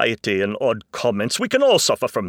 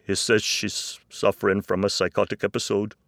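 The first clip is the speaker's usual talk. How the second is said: distressed reply; 3 semitones higher, 9 dB louder than usual. Acted. Distressed dad breaks bad news.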